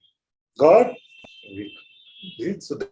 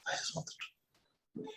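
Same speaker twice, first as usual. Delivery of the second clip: mock seeker voice; 21 dB quieter, slower than usual. Voicing seeker, breathy high.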